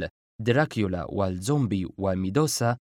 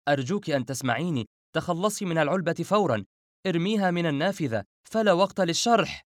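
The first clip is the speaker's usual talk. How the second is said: high, pleading urgency climbing in pitch; panicked cry; 7 semitones higher than usual. Acted. Refaat begging her to throw the box away, crying out. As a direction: plead frantically, pitch rising as you go. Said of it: "صرخ".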